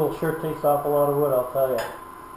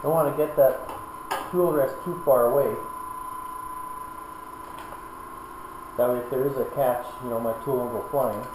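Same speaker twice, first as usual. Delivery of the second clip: loud; 5 dB louder than usual. Real, not acted. Talking over a running lathe.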